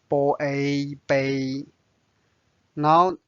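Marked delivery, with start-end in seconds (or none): 0.1-1.7 杯 in a level first tone. Shown as a demonstration. Teacher shows learners the first tone of 杯, held level. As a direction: hold 杯 flat and even, first tone. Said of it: "its first tone".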